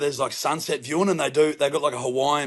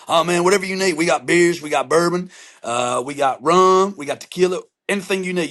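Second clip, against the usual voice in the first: eager imitation of a welcoming neighbor; lightly voiced hospitable buddy; generous neighbor; 5 semitones higher than usual. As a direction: list it off higher, insisting on sharing. Neighbor generously listing drinks.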